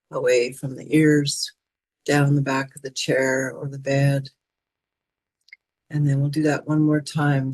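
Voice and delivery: calm, measured relaxation instructions with pauses; guided meditation. Acted. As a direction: guide them gently through a body release. Leads shoulder release exercise.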